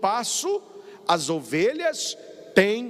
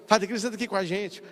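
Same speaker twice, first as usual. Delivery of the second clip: relieved echo; faster than usual. Retold or imitated. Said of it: "Eu, eu fico assim, ó".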